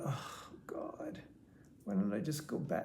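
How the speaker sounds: breathy whispered inner thought. Retold or imitated. Woman on a rainy bus stop, whispering her frustration. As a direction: whisper it to yourself in dismay.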